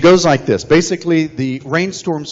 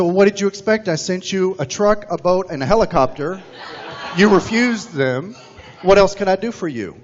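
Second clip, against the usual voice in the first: higher, amused exasperation; God answering the man, amused and higher; God's wry answer; 5 semitones higher than usual. Retold or imitated. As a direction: tell him he was warned, with a chuckle.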